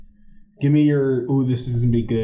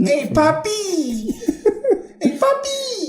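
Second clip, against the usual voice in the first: high, drawn-out flirty Latina accent; much slower than usual. Shown as a demonstration. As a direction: put on a hammed-up sexy Latina voice. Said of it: "I'm all about that accent".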